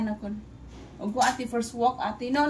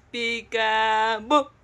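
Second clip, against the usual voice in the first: very slow, drawn-out call; playful peekaboo; 4 dB louder, much slower than usual. Real, not acted. Mother plays peekaboo with her baby, stretched and playful.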